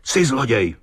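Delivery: high-pitched accusing cry. A narrator's reading. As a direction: fling the accusation. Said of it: "křikl znovu kapitán".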